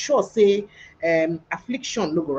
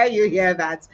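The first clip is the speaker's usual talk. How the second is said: laughing aside; 3 dB louder, slower than usual. Real, not acted. Laughs at party joke.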